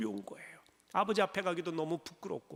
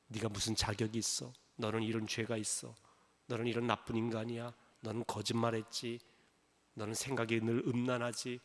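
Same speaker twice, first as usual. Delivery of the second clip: lightly voiced accuser; 6 semitones lower, 3 dB quieter than usual. Satan accuses the believer.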